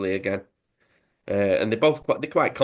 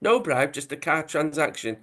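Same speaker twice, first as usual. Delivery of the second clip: put-on mild Italian accent; 4 semitones higher than usual. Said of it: "he says".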